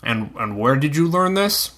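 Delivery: talking through a mouthful; words round a bite of meat; mouth full. Acted. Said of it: "he asked with a full mouth".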